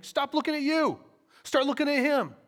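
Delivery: high, emphatic pulpit command; urgent exhortation. Real, not acted. Preacher urging congregation to look at Jesus, urgent exhortation.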